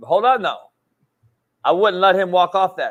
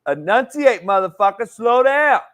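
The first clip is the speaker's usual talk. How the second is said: higher, louder correcting coach; coaching correction; 4 semitones higher, 4 dB louder than usual. Retold or imitated. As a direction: bark corrections at the player. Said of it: "I taught that motherfucker".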